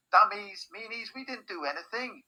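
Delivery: high-pitched indignant cry; shouting in protest. A narrator's reading. Annie protests to the guards, high indignant shouting. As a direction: start loud, keep it high and protesting. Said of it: "Annie shouting at the guards".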